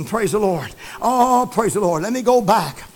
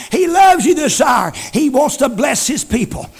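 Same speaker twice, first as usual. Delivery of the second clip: louder, rhythmic gospel preaching; preaching at full force; 4 dB louder than usual. Real, not acted. Preacher urging the congregation, loud and fervent. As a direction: hammer each line home to the church.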